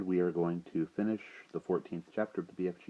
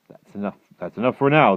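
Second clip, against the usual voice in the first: BFG; 5 semitones higher, 15 dB louder than usual. A narrator's reading. The giant ends the reading.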